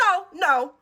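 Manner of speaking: worked-up customer complaint, acted out; passionate scolding. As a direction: imitate an indignant customer lecturing a cashier. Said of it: "She was so passionate about this penny".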